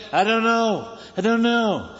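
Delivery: a fed-up leader shrugging off questions; Abraham, fed up, brushing off his nagging people; weary Abraham. Retold or imitated.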